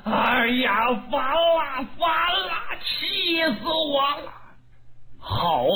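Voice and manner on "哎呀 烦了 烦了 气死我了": exasperated cry that rises higher with each 烦了; fuming. Acted. Dong Zhuo fumes after Lü Bu escapes, rising exasperated cries. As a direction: boil over with rage. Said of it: "他把董卓给气坏".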